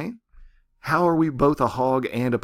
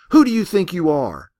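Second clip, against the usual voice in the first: higher and louder furious roar; 7 semitones higher, 6 dB louder than usual. A narrator's reading. Ruby roars at the sky in a final surge of fury. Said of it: "A final surge of fury shook her and roared".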